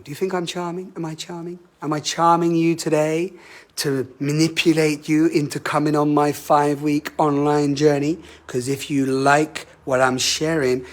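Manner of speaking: a light flirty charmer act, teasing the listeners; playfully seductive, mock charming. Teacher playing the charmer to the audience, lightly flirty. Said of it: "A charmer, charming".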